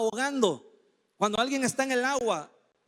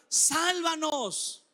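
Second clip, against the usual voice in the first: higher, very slow, stretched cry; desperate plea; 5 semitones higher, much slower than usual. Shown as a demonstration. Preacher showing Hosanna as a desperate cry. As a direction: beg to be saved right now. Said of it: "un grito desesperado de ayuda".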